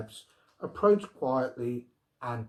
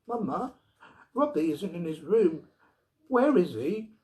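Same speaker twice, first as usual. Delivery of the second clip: put-on frightened child; 6 semitones higher, 4 dB louder than usual. A narrator's reading. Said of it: "a frightened little girl".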